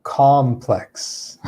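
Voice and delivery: complex with stress on PLEX; com-PLEX, lean on the last syllable; stress on the second syllable. Shown as a demonstration. Teacher to students: complex with stress on PLEX. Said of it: "has the stress here on the second syllable".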